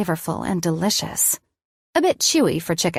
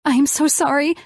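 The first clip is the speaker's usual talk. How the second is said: higher, tearful, shaking apology; crying apology; 8 semitones higher, 3 dB louder than usual. A narrator's reading. Elena crying to Colin at dinner, tearful and high. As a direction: sob the apology out. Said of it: "I started crying".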